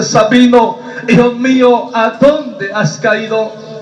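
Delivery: emphatic, drawn-out call from God; preacher voicing God slowly; solemn divine voice. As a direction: call the fallen son, lingering on the question. God's voice calls a second time.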